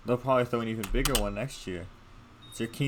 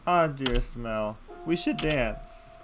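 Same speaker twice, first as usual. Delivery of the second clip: slow theatrical invite; slower than usual. Acted. Princess invites brother theatrically.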